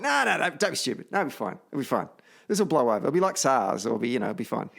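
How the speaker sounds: breezy, dismissive "no, no, no"; dismissive brush-off. Retold or imitated. Recalling brushing off a friend's warning, breezily dismissive. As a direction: wave it away as nothing. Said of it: "And I went".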